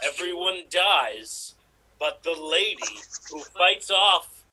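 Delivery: understated trailer narration with long pauses; movie trailer voice. Acted. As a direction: pitch a film in measured, separated phrases. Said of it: "in your best, uh, trailer voice".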